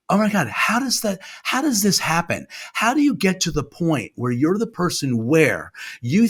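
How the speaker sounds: high-pitched, baffled questioning; acted disbelief. True crime fan reading a story, incredulous questioning. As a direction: ask it high, as if truly baffled. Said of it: "I'm thinking like".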